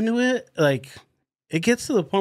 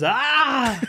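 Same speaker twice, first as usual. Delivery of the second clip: retold scream; 7 semitones higher than usual. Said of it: "all you hear is".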